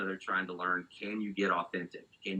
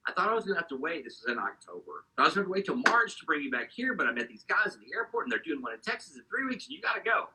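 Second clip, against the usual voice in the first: excitable friend; 6 semitones higher than usual. Retold or imitated. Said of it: "Daryl's a little excitable anyway".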